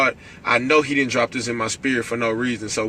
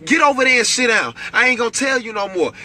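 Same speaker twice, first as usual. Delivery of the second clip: stern escalated warning; 9 semitones higher than usual. Shown as a demonstration. Preacher ordering depression to sit down, stern raised voice. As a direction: order depression away like a naughty child. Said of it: "your voice has to get escalated".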